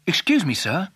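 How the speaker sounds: cortese gatto parlante, tono un po' più alto; polite talking cat, voice lifting at the end; gatto educato. Acted. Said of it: "said the cat".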